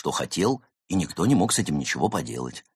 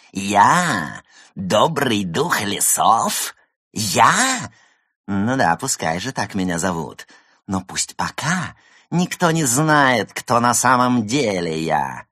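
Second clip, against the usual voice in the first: slow scornful drawl; mocking; 3 semitones higher than usual. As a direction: sneer at his own title. Villain mocks himself aloud.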